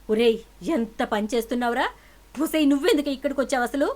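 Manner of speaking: high furious shout at son and niece; loud shouting. A narrator's reading. Mother yells at son and niece, furious shout. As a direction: yell in shock and anger. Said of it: "తాయారు గట్టి గట్టిగా అరుస్తూ ఉంటే".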